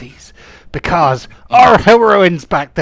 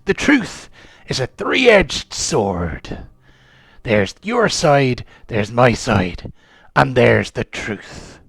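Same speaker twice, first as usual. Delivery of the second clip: slow philosophizing; 2 semitones lower, slower than usual. Acted. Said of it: "I am one of nature's philosophers".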